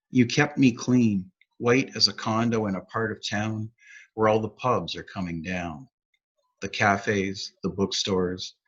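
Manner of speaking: measured poetry reading, falling line ends; poem recitation. Acted. Poet reading his own sonnet, measured recitation. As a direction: read the verse line by line with pauses.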